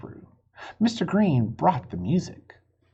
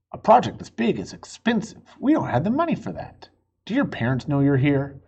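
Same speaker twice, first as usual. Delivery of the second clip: landlord voice; 3 semitones higher, 4 dB louder, faster than usual. Acted. Landlord answers kids.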